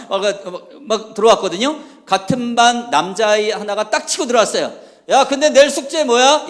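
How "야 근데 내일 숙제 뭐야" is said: put-on loud, high-pitched boy butting in; oblivious schoolboy. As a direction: call it out like a clueless classmate. Boy barges in with unrelated question. (눈치 없이 크게 끼어드는 남학생 흉내)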